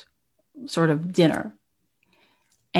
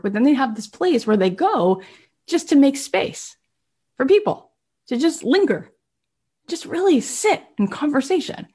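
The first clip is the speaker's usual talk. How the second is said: retold wonderment; 5 semitones higher than usual. Man describing a beautiful third place, in wonderment. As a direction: pitch lifting into dreamy wonder. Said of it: "he was just in such wonderment".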